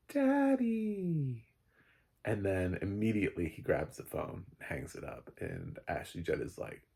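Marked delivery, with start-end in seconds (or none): 0.1-1.4 put-on high, child-like Daddy; lightly voiced child calling his father; little kid's voice. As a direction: squeak it like a small boy. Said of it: "her son says".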